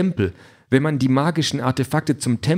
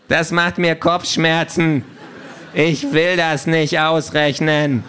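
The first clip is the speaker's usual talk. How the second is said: laughing; 3 semitones higher, slower than usual. Acted. Overwhelmed by numbers.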